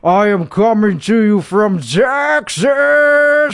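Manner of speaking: lightly put-on show host voice. Host opening his own show in a mild pompous voice. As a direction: introduce yourself like a self-serious host.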